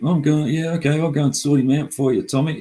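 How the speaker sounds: a keen yes-man, lightly voiced; hammed-up loyal follower offering to help; mock eager follower.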